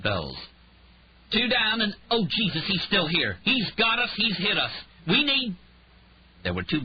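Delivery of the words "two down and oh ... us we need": high, loud panicked radio call; frantic under fire. A narrator's reading. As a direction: gasp it out while shot at.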